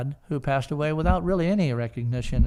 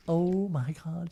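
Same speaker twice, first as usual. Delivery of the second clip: slow, softly awed imitation; drawn-out, soft gasp of wonder; starstruck little kid; 3 semitones higher, 5 dB quieter, slower than usual. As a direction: imitate mom hushed like a thrilled child. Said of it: "little teeny kid".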